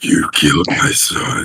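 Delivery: loud, low, guttural growling bear voice. Voicing a huge bear at a cave: low guttural bear voice. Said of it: "This is low, this is guttural".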